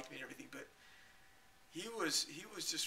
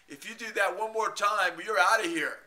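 loud, higher ultimatum; furious threat; 5 semitones higher, 12 dB louder than usual. Retold or imitated. Moderator shouting a last warning before a ban. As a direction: yell the final warning. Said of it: "the monitors of that room".

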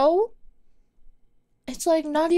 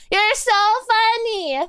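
sarcastic; 7 semitones higher than usual. Acted.

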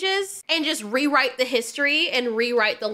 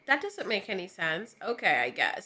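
resigned mumble; 6 semitones lower, 7 dB quieter than usual. Retold or imitated. First-time viewer confused and resigned.

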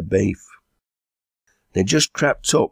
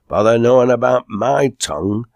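higher, louder indignant retort; raised voice of mild outrage; 6 semitones higher, 6 dB louder than usual. Acted. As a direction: snap back, affronted. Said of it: "in an indignant tone".

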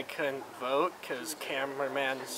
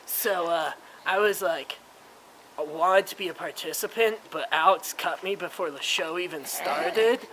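put-on frat boy voice. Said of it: "frat boy".

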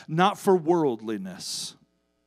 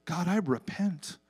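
quiet repentant prayer; 5 dB quieter than usual. Retold or imitated. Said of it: "go back to the Lord and say".

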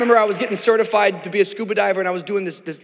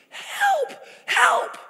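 mock cry for help. Acted drowning cry.

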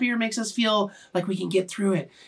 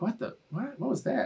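retold bewilderment; 4 semitones higher, 10 dB quieter than usual. Retold puzzled reaction to a drop.

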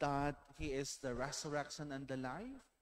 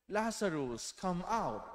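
raised, louder calling out; 6 semitones higher, 6 dB louder than usual. A narrator's reading. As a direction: call the dead man out of the tomb. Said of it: "he cried out in a loud voice".

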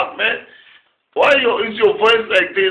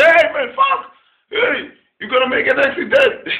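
retold yell at driver; 5 semitones higher than usual. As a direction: shout to wake the driver. Yelling at dozing taxi driver.

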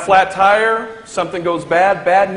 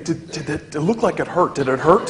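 quiet question; 5 semitones lower, 6 dB quieter than usual. Retold or imitated. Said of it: "they always ask the same thing".

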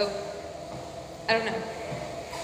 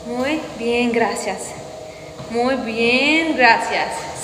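Spanish accent attempt; much slower than usual. Shown as a demonstration. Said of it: "It's that Arabic flair".

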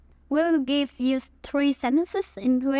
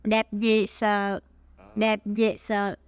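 expressive Huế exclamation; 4 semitones lower than usual. Shown as a demonstration. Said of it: "much more expressive".

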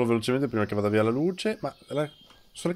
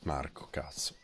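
soft unvoiced whisper; 7 semitones lower, 14 dB quieter, slower than usual. Real, not acted. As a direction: hiss it quietly to a teammate. Tense moment, whispering to teammate.

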